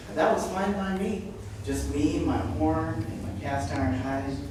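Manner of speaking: measured poetry recital with pauses between lines; poem reading. Acted. Poet reading to an audience about turning into a rhino, measured recital. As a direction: read your poem out line by line. Reads own poem aloud.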